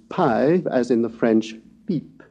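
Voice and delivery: "pi" and "pipe" with an unaspirated French p. Shown as a demonstration. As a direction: say the p of "pipe" without a puff of air. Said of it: "we must try to pronounce".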